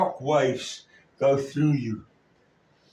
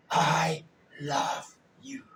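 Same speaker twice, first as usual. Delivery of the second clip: soft, slow whisper of love; 5 dB quieter, slower than usual. Acted. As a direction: breathe it gently to the child. Father comforting child in story.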